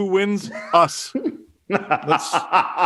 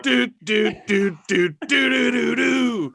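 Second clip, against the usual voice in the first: wrestling promo; slower than usual. Pretend. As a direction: growl it like a wrestler on the mic. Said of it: "Cut a promo on fake punch guy".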